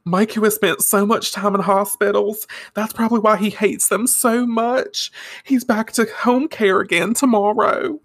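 high, hammed-up tearful mother; blubbering Southern mama. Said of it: "As she blubbers into her handkerchief".

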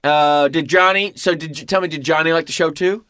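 a hammed-up eager father; dad pestering his son about the show; imitating dad. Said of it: "He might say".

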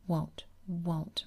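lightly voiced naughty little boy, whispered; small boy refusing medicine, mild; naughty child. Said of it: "Michael cried naughtily".

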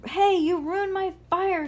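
high, loud, drawn-out screech. A narrator's reading. Trevor blames Ruby for dousing it, high slow screech. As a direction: screech an outraged accusation. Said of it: "screeched Trevor".

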